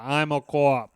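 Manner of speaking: mock Boston drawl on co-op, said kwop; imitating Leo's Boston vowels in "co-op"; Leo's Boston accent. Mocking the actor's film line in a Boston accent. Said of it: "he keys on a couple words like".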